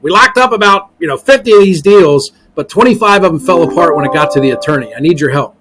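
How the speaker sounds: imitated Boston investor, starting high and easing down; Boston accent. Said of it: "he's got this real strong Boston accent".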